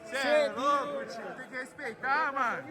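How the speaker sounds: hyped-up drawn-out praise; gym bro. Real, not acted. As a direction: stretch the words out in awe. Hyped reaction after the lift.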